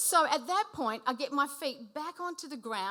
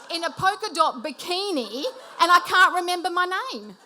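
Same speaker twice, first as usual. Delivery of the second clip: mounting panic; 3 semitones higher, 5 dB louder than usual. Retold or imitated. Panicked kidnapping fantasy, building up.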